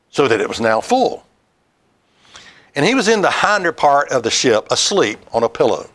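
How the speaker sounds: measured Bible reading voice; scripture reading. Acted. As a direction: read the passage steadily to the congregation. Reads scripture aloud.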